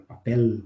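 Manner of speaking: papel ending in a clear l. Shown as a demonstration. Teacher showing the Spanish papel. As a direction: say papel with a full final l. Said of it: "fala papel".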